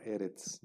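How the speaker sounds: "eretz" stressed on the opening e; stress on first syllable. Shown as a demonstration. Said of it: "acento en la primera sílaba".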